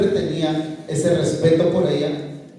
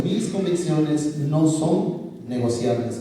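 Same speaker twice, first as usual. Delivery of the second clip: slow, deliberate "no son negociables"; slow emphasis; 3 dB quieter, slower than usual. Shown as a demonstration. Speaker giving youth a motto, slow emphasis. Has listeners remember the principle.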